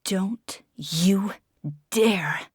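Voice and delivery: whispered, voice shaking with rage. Acted. Desi warning Oliver in a shaking whisper. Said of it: "My voice shook".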